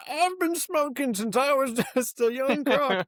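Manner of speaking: put-on high, slow raspy old smoker; raspy smoker crocodile. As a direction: croak it like a chain-smoking croc. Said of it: "it's like".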